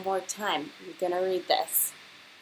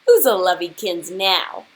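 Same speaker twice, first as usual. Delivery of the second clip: put-on louder baby talk to the bird; doting old lady; 11 dB louder than usual. Angela doting on her overfed bird. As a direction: coo it like spoiling a pet. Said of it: "said Angela".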